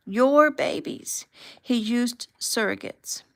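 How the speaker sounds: high and loud, close to breaking; distraught, near tears. A narrator's reading. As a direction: spill it out in distress, slowing at the end. Sobbing woman reveals the babies.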